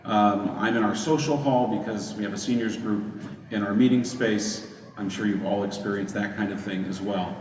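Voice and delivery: echoey room sound; speaking in a big echoing hall. Real, not acted. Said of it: "I apologize for the echoey nature".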